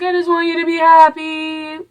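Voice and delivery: very high-pitched imitation of a plea; hammed-up high pleading voice; mock pleading. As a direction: squeak it out in a put-on high voice, trailing into blahs. Mock-voicing a character's plea.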